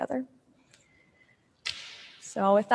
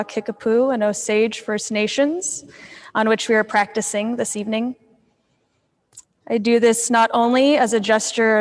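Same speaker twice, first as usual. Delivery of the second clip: louder, measured formal statement; formal land acknowledgement; 6 dB louder than usual. Real, not acted. Yoga instructor acknowledging Indigenous territory before class, formal and louder. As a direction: project it as a formal address to the room.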